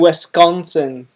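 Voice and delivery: Wisconsin with a loud, drawn-out "con"; imitated Wisconsin. Reactor mimics the presenter's way with her state, exaggerated Wisconsin. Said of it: "How he says that diff".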